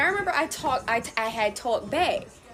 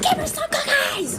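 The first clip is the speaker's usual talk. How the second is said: high-pitched mock mom yell; exasperated mom; 13 semitones higher than usual. Mom orders child to share cookies, exasperated. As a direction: imitate a fed-up mother giving orders.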